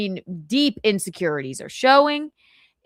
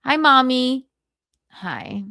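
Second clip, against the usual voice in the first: bad mood; 4 semitones higher than usual. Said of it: "Michaeline in a bad mood".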